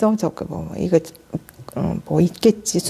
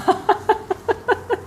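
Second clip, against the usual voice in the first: soft high laugh; 12 semitones higher, 6 dB quieter than usual. Real, not acted.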